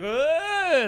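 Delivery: high, drawn-out mock "ugh"; mimicked disgusted groan. Comic retelling hecklers' reaction, mock groan. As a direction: imitate a put-out groan.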